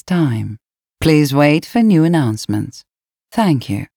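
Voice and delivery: clear, formal boarding call; airport announcement. Acted. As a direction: announce the flight to the gate. Flight boarding announcement read out.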